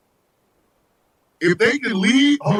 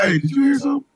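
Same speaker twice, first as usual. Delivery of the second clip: mock puzzled aside; 4 semitones higher, much faster than usual. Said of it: "New York goes to California".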